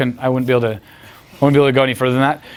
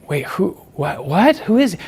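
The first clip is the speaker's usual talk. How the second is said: halting confusion climbing to high disbelief; mock bafflement; 3 semitones higher, slower than usual. Girls baffled by this guy, mock bafflement. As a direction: mimic a baffled onlooker, pitch rising as it goes.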